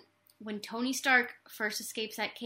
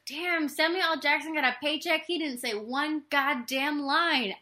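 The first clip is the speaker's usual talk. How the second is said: amused disbelief; 4 semitones higher than usual. Retold or imitated. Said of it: "'cause I'm like".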